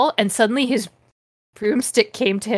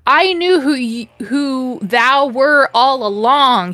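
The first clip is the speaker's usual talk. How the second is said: higher, drawn-out mock-villain gloating; mock evil; 4 semitones higher, 4 dB louder than usual. Reading a fanfic villain's big reveal aloud, mock evil. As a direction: play a hammed-up sarcastic villain. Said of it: "he cackled evilly and sarcastically at me".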